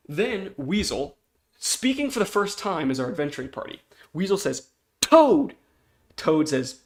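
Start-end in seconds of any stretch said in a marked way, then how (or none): 5.0-5.5 high, loud call for a friend. Acted. Weasel calling Toad over, loud high shout. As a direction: yell the name across to them.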